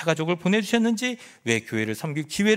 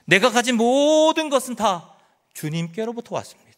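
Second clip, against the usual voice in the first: higher and louder, stressing 모든; ringing preacher's proclamation; proclaimed confession; 5 semitones higher, 4 dB louder than usual. Acted. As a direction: declare it to the whole congregation.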